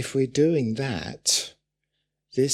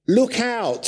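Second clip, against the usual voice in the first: high, loud cry of alarm; alarmed warning; 11 semitones higher, 5 dB louder than usual. Retold or imitated. Preacher voicing Paul warning the church, loud alarm. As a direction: sound the alarm.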